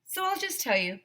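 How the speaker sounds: building to a loud, high announcement; dramatic reveal. A narrator's reading. A narrator unveiling the zombie's identity to the listener. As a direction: belt out the name as the big reveal.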